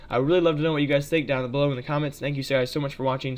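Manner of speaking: stuffy, congested voice; blocked nose. Real, not acted. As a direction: talk through a stuffed-up nose. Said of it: "Sorry for me being stuffy towards the end".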